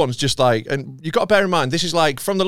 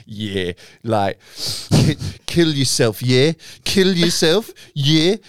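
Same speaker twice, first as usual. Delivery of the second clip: roadman voice; slower than usual. Retold or imitated. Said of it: "trying to put on, like, a roadman voice".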